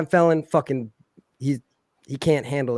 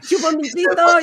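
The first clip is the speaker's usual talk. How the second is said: mock Mexican-accent taunt; 13 semitones higher, 5 dB louder than usual. Mexican workers taunting the framers in the lobby, loud mock Mexican accent. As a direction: taunt them like a hammed-up Mexican guy. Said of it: "And, like".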